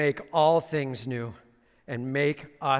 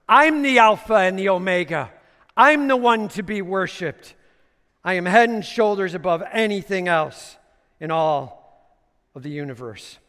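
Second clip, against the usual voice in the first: loud, building declaration of God's voice; majestic proclamation; 3 semitones higher, 8 dB louder than usual. Acted. Preacher voicing God to the church, proclaimed. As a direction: build from steady to loud and commanding. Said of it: "It says".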